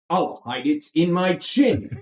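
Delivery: lightly hammed-up bad film star imitation; mock-heroic cartoon parody; horrible Kirk Douglas impersonation. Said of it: "that was a horrible Kirk Douglas, uh, impersonation".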